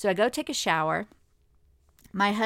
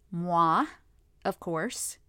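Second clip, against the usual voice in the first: sarcastic; much slower than usual. Pretend. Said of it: "I say that sarcastically".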